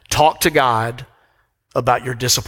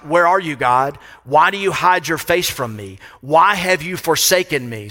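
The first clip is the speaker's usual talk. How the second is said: psalmist's plea; 2 semitones higher than usual. Retold or imitated. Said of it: "the psalmist asked questions like".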